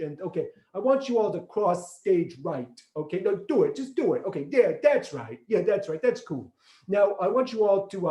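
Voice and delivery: put-on light Queens accent, Archie Bunker style. Directing actors on stage in a light Queens accent. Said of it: "I was gonna talk like this".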